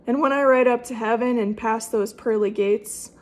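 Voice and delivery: gently recited rhyming verse; cowboy poetry. Shown as a demonstration. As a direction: recite it like a fireside cowboy poem. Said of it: "make a cowboy poem out of it".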